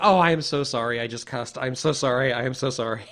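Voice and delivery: loud, rushed, embarrassed sorry; blurting apologies after a startled swear; flustered apology. Retold or imitated.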